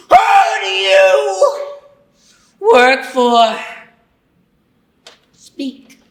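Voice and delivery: screaming, high furious interrogator; furious interrogation. Acted. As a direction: roar at the traitor. Interrogating the traitor Mister Puffers.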